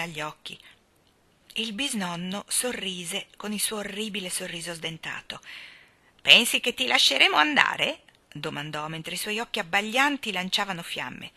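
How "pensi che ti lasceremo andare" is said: menacing question. Acted. Great-grandfather threatens Jane.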